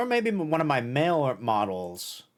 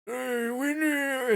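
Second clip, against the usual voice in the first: put-on high, slow, creaky old man; 11 semitones higher, much slower than usual. Shown as a demonstration. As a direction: call out like a frail old man. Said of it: "my old man voice is more like".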